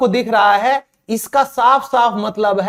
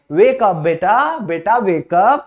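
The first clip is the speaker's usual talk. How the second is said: gentle wake-up; slower than usual. Retold or imitated. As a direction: coax a sleepy child awake, slowly. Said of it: "आप कह सकते हो English में".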